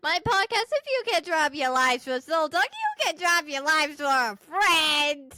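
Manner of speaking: guilt-trip them into joining; pleading pitch. Pretend. Daughter pleading with the Soul Talkers, mildly hammed-up. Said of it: "tell the rest of the Soul Talkers".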